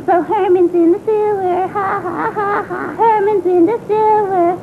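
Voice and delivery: put-on childish sing-song gloat; teasing chant with spoken ha-has; gloating taunt. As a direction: chant it back in revenge. Child gloats, echoing brother's taunt.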